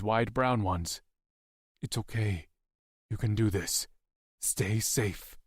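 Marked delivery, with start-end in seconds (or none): 1.8-5.4 soft, tender farewell; hushed, loving encouragement; reassuring. A narrator's reading. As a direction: comfort her gently in short phrases. Dying protector comforts the child.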